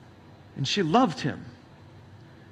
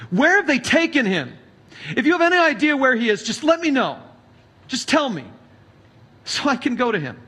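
desperate plea; 4 semitones higher than usual. Acted. Mary pleading at the tomb.

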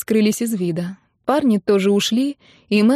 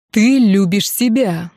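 жёстко; 4 dB louder, slower than usual. A narrator's reading. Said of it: "жёстко отвечал Тропинин".

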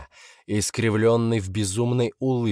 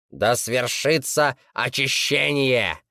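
slow, raised ritual cry; shouted decree; 4 semitones higher, slower than usual. Acted. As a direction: proclaim it slowly. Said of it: "крикнул старейшина Лянбао".

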